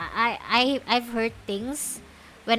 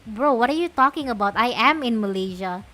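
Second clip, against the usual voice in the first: loud exasperated comeback, louder than usual; exasperated retort; 2 semitones higher, 6 dB louder than usual. Retold or imitated. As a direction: tell him off, fed up. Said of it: "And I'm like".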